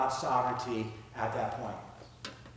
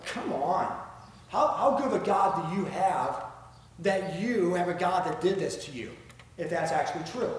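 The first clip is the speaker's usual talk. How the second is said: mocking scoffer; 3 semitones higher than usual. Unbelievers taunting believers about their God, mocking. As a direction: imitate incredulous mockers, pitched up at first. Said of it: "They're mocking God and they're mocking the people".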